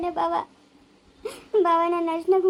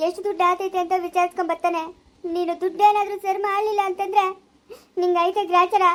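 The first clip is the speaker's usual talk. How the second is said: angry tearful scolding. Acted. Wife furiously threatens mother-in-law over the money. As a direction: threaten her, raw and angry.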